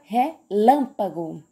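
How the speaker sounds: "relâmpago" split after RE, weight on LÂM; stress on second syllable. Shown as a demonstration. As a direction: set LÂM apart in "relâmpago". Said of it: "o lã é a sílaba tônica". ("relâmpago" com destaque no LÂM)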